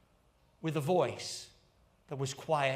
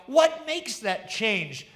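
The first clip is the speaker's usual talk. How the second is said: crowd crying out; 3 semitones higher, 3 dB louder, slower than usual. Acted. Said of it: "And the people cried out".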